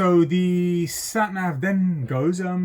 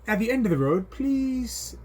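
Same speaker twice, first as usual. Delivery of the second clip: mock sat nav voice; 7 semitones higher, slower than usual. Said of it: "the sat nav in its, uh, monotone, neutral, female".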